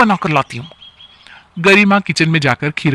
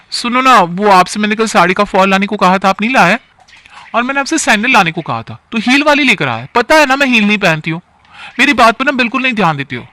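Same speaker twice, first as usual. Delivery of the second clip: put-on a lightly raised, nagging young wife; complaining wife; 5 semitones higher, 3 dB louder than usual. Wife nags husband over breakfast, higher and a bit faster. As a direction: whine your grievances to him at the table.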